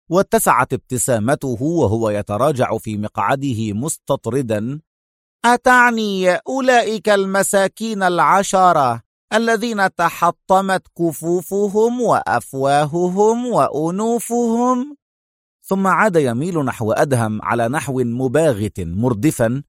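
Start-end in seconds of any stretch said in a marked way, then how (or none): 5.5-15.0 sarcastic. A narrator's reading. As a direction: taunt with exaggerated pity, pitch raised. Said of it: "وهو يقول في سخرية".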